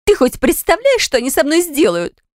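very high, frightened wail; panicked plea. A narrator's reading. Wife panics at husband about her parents' anger. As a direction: voice flying up in panic.

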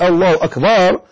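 أكبر with a long "baa" before the r; wrongly lengthened ba. Shown as a demonstration. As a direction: say أكبر as "akbaar". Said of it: "وليحذر المؤذن من مد باء أكبر".

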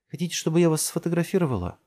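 high, quick friendly question; good-natured. A narrator's reading. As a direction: offer help to strangers, kindly. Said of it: "добродушно спросила она".

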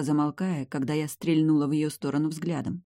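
ordinary delivery, nothing marked

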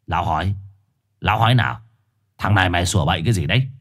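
low gruff questioning, then fast scolding; gruff dog scolding fast. Acted. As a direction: snap at him for talking nonsense.

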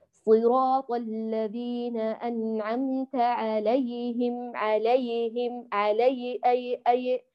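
slow recitation with a wobbling, broken y in "عليهم"; measured chant, unstable glide on "عليهم"; unsteady yaa. Shown as a demonstration. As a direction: let the yaa of "عليهم" jitter, repeating "أي، أي". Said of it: "هذا الاضطراب في المخرج".

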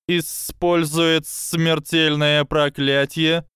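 high, slow, calm snake statement; slow hypnotic serpent hiss. Acted.

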